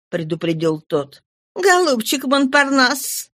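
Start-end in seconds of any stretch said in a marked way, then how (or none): 1.5-3.3 tender. Acted. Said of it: "ласково сказала Эпонина".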